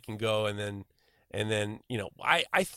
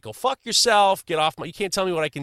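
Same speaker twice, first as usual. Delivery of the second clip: mock defiant yell; 6 semitones higher, 7 dB louder than usual. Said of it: "surprised that we weren't like".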